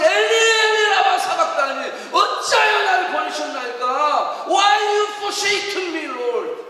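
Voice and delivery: anguished cry shouted out, long-drawn words; Jesus. Acted. Jesus crying to God who forsook him, loud drawn-out cry. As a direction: cry out loudly, stretching the plea. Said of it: "예수님이 말해서".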